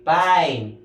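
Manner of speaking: "pine" with the "eye" glide stretched, falling; long I sound. Shown as a demonstration. Teacher repeating the word for class, emphatic long I. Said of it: "you have to pronounce it as I".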